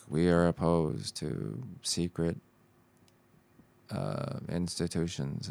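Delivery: slow, measured presidential address; old school presidential voice. Retold or imitated. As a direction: speak like a sixties president at a podium. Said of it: "Sounds like it's your alien voice".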